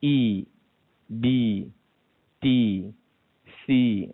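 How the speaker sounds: "I, di, ti, si" said with spread, smiling lips; smiling kasrah. Shown as a demonstration. Teacher drilling the kasrah vowel, smiling. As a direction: smile through each "i". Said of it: "kalau baris bawah kena senyum".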